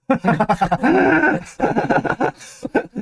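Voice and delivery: can't hold back real laughter; laughing. Real, not acted. Lecturer to listener, apologizing, laughing helplessly. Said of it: "죄송합니다".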